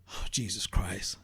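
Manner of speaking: low, slow exasperated sigh of the words; exasperated groan. Real, not acted. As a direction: drag it out, fed up. Exasperated reaction again.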